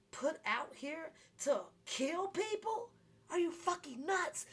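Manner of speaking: high, loud, slow outrage; incredulous angry rant; outraged. Real, not acted. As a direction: blow up at the absurdity. Outraged at COVID surcharge sign.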